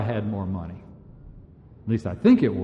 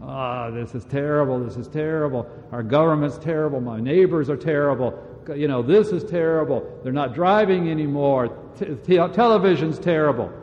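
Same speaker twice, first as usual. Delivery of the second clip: mock complaining. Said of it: "complaining all the time".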